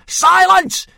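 teacher yelling for silence. A narrator's reading. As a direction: shut them up in one word. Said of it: "yelled Gobber".

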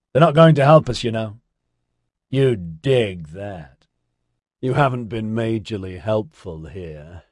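loose, mellow stoner guy; laid-back hippie voice. Acted. Ozzy's voice again.

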